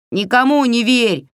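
high, sudden minion's cry; high, eager goblin parroting; blurted out. A narrator's reading. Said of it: "выпалил Егоша".

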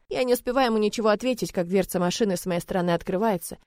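ordinary delivery

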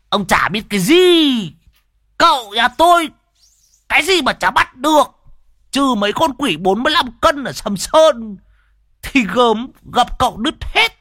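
guffawing boast. A narrator's reading. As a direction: brag loudly while mocking the host. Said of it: "cười hô hố".

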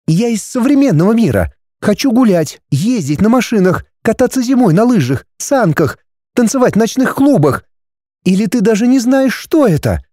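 put-on high, indignant young woman; girl's voice. A narrator's reading. Heroine questioning the dragon, high and puzzled.

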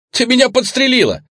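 yelling. A narrator's reading. Man hit by flying dirt yelling at his captor, shocked shriek. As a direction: scream it in shock and outrage. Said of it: "заорал он".

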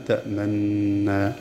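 تأمنا with the doubled nun merged fully, no rounding, very slow and soft; pure merging. Shown as a demonstration. Teacher shows Abu Jafar's full merging, very slowly. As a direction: merge the nun of تأمنا plainly, lips still. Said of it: "بغير روم ولا إشمام".

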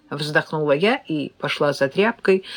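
usual speaking voice

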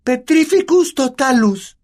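high, loud, slow incantation; shouted spell. A narrator's reading. Hermione shouts the spell at Neville, high and loud. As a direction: cast it with a cry. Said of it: "gritó".

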